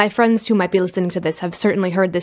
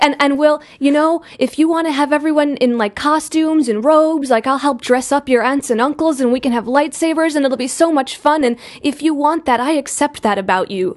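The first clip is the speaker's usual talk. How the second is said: higher-pitched, gushing mom imitation; eager accepting mother; 6 semitones higher than usual. Mother offering daughter a themed wedding, eagerly supportive. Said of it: "and she's like".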